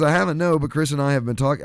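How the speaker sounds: attempted English accent, Tom Holland style; British accent. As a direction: read it like a Londoner. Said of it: "I hear it in the accent in my head".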